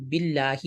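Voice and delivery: باللہ begun with "bi", "billaahi"; thin maroof vowel. Shown as a demonstration. Teacher shows how it is read, thin "billaahi" for باللہ. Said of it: "بی باریک ہوگا".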